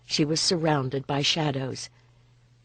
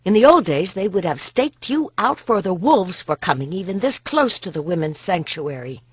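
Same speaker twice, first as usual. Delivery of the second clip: louder, higher scolding that fades; stern rebuke; 4 semitones higher, 4 dB louder than usual. Acted. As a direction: warn him off hard. Boudica rebukes Pollio.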